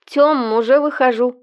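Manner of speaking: бодро, запыхавшись, выше; на бегу, сбитое дыхание. A narrator's reading. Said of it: "бодро запыхавшись". (бодро и запыхавшись)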